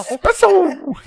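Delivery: very high, loud squeal; overacted anime dub. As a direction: shriek it like a hyper cartoon. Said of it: "If you're saying it like that".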